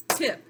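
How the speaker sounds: "tip" as one separate beat; clapped syllable. Shown as a demonstration. Teacher clapping out syllables, "tip" on one beat. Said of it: "clap out the syllables".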